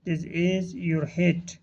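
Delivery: slow, word-by-word teaching delivery; drawn-out words with small gaps between; slow model reading. Shown as a demonstration. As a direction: model the phrase slowly for learners. Teacher models phrase for learners.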